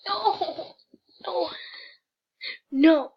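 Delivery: repeated mock-outraged no; shouted no. Real, not acted. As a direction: yell no at the result. Protest at a disliked quiz result.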